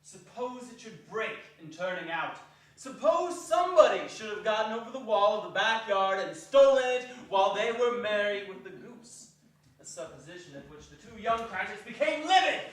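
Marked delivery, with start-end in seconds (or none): 0.0-9.3 louder, rising dread; mock-anxious alarm; anxious worry. A narrator's reading. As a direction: fret over the worst. Anxious fearful suppositions.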